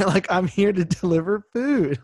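a fed-up courier insisting he has a job; laughing mock plea; exasperated delivery man. Delivery man pleads with woman.

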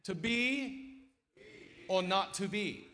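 high, mock old English accent. Shown as a demonstration. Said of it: "So say it again".

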